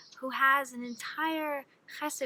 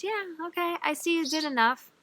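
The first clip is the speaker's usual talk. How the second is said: mock approval; 6 semitones higher than usual. Miser voiced with mock approval.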